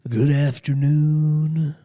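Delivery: slow, drawn-out celebrity voice. Acted. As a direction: lay it on slow and heavy. Impression voice demo opening.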